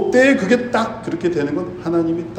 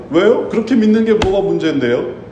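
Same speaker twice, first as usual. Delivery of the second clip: a higher, cocky talking-back voice; lightly played skeptic pushing back; defiant retort; 4 semitones higher than usual. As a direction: shrug it off like a customer choosing a service. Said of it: "반문합니다".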